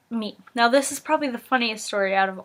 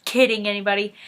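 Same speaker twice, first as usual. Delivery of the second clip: mock stern scolding; faster than usual. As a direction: play a kid scolding them, mildly stern. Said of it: "he was like".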